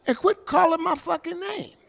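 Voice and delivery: high, loud furious retort; retold furious yell. Eddie telling the stranger to stop calling his name, high angry yell. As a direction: bark at him to stop using your name. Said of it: "I said".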